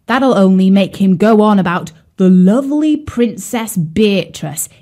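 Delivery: a sulky carp scoffing at romance; grumpy carp. Acted.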